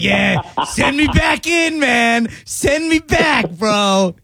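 high, slow surfer dude shout; surfer bro voice. Retold or imitated. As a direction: drawl it out like a stoked surfer. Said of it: "And I'll be like".

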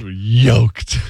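slow, lumbering caveman talk. Pretend. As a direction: plod through it like a caveman. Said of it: "Why do I talk like a caveman?".

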